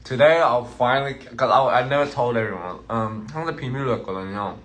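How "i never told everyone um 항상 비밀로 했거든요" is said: talking with mouth full; words around a bite of apple. Real, not acted. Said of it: "Never talk with your mouth full".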